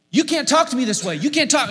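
high mock yell; retold yelling. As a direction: shout it back indignantly. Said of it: "just yelling at each other".

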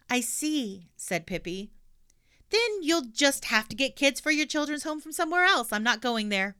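high, loud cheeky refusal; stubborn little girl; defiant girl voice. Acted. Pippi refuses.

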